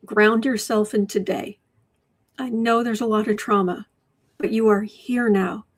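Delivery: ground them gently in today; reassuring. Real, not acted. To viewers with trauma, calm and reassuring.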